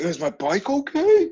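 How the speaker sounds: put-on high and laughing, quoting the kid; laughing mock kid voice. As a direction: quote him through real laughter.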